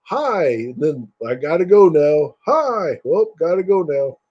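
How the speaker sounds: high chirpy greetings; high chirpy mock hi; movie greetings. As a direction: chirp them like stiff extras. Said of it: "everybody's always going like".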